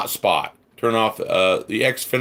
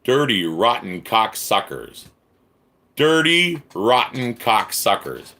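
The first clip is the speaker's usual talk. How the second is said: angry cursing. Real, not acted. Repeats insult during angry rant.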